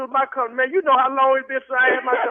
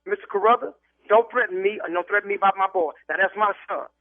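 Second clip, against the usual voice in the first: stern warning. Real, not acted. Father warns caller about threatening his son, stern. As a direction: warn him off in a lowered voice.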